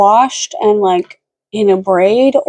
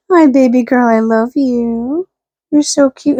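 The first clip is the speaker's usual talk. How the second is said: cooing to dog. Real, not acted.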